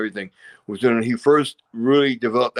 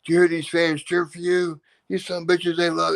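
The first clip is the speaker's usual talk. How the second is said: excited; 5 semitones higher than usual. Retold or imitated. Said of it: "I'm sitting there going".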